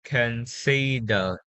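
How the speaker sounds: slow CONSIDERED, stressed on SI; corrected pronunciation. Shown as a demonstration. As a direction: model considered slowly, syllable by syllable. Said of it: "It should be".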